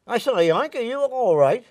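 put-on old Englishman calling.

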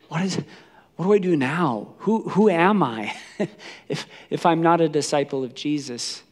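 acted distraught questioning, halting; broken. Peter asking himself who he is now, broken and halting. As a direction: stumble through it, lost. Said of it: "He's broken".

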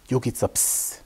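breathy whispered hush; shushing a chicken in a sleeping house. A narrator's reading. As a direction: hush the hen so nobody wakes. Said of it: "suttogta Marshall".

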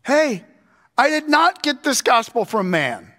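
high, loud insistent declaration; Paul insisting to the church he got no gospel from men, loud and high; emphatic Paul. Retold or imitated. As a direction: plead Paul's case hard, every not hit. Voicing Paul's emphatic defense.

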